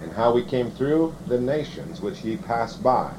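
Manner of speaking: measured, formal Bible reading; scripture reading. Acted. Preacher reading the covenant curses to the congregation, formal scripture reading. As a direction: read it out in steady, solemn phrases.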